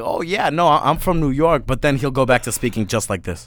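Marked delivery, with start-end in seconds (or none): 0.0-1.6 fake New York accent. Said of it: "He's like".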